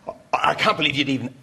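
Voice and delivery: hammed-up outraged father; dad ranting against royals, mock indignant. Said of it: "He goes on and on and on like this".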